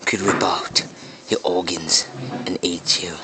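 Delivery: whispered wildlife narration; hushed nature documentary. Pretend. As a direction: breathe it like a nature film.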